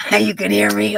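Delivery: delighted surprise at the viewers; surprised. Real, not acted. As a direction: react like you can't believe it. Surprised viewers can hear.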